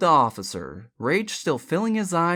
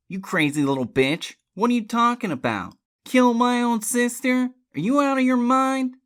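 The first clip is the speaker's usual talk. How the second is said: raised, indignant denial, building louder; outraged; 6 semitones higher, 5 dB louder than usual. Acted. Uncle answers niece's murder accusation, outraged. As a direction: build from insult to loud disbelief.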